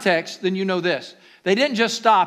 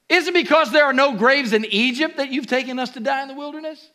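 sarcasm; 6 semitones higher, faster than usual. Retold or imitated. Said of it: "You like that sarcasm".

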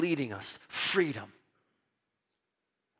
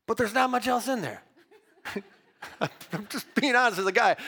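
ordinary delivery

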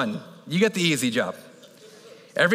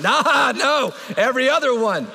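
laughing; 7 semitones higher, 5 dB louder, slower than usual. Real, not acted. Laughing correction of the crowd.

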